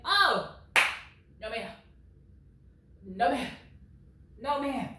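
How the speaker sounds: sassy, drawn-out refusal; no ma'am, not having it; indignant no ma'am. Real, not acted. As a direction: shut it down with attitude. Rejecting husband's behaviour.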